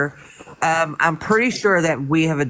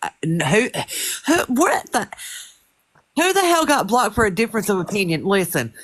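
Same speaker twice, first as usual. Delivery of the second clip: calm turning angry; 3 semitones higher than usual. Real, not acted. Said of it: "I'm trying to stay calm, but you're really starting to irk me".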